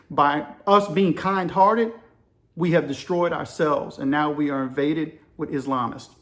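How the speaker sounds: mildly imitated Greek accent; measured, lightly Greek-accented retelling; poor Greek accent. Greek chief lamenting to an American shipmate, lightly imitated Greek accent. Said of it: "in my poor Greek voice".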